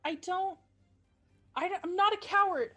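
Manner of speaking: high hurt protest; small kid standing his ground; defiant child voice. Acted. Child refusing to flee.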